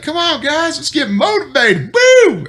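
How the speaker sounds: high, hyped-up cheer ending in a whoop; imitating Nurko. Nurko rousing the cold squad at night, high and hyped. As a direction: pump the squad up like an eager buddy. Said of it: "He'd be like".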